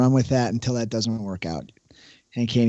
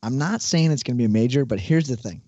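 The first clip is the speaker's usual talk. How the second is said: infomercial voice. Acted. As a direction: hype it like a TV ad. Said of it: "starting the year off with a little infomercial voice".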